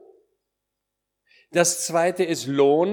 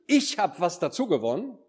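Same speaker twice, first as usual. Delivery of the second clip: raised pitch with ICH as the proud point; stress on ICH; 4 semitones higher than usual. Shown as a demonstration. Preacher demonstrates the wrong reading of the servant, stress on "Ich". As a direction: put the weight on "Ich", claiming the credit. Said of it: "die Betonung liegt gar nicht".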